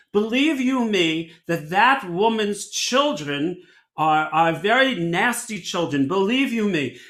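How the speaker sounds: a hint of emphatic Russian-grandmother accent. Russian grandmother judging a neighbor's children, lightly accented imitation. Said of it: "my Russian grandmother".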